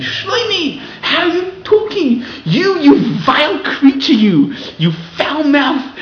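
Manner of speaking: high, loud, slow, scolding; mock parents shouting insults while forbidding cursing; slowing and dropping slightly toward the end; imitating parents yelling. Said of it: "those parents who are saying".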